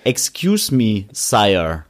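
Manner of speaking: slow, mock-formal British accent. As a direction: address a king in a British accent. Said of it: "kannst du guten britischen Akzent machen?".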